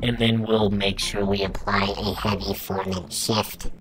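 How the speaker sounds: auto-tuned voice demo, pitch locked and altered; auto-pitch effect. Shown as a demonstration. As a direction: voice run through pitch correction. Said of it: "This is what the M Auto Pitch sounds like turned on".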